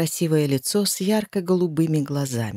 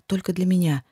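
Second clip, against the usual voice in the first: ordinary delivery, nothing marked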